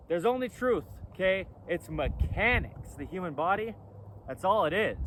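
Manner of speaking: loud over the wind; shouting over wind. Real, not acted. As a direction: raise your voice against the wind. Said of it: "yelling over the wind noise".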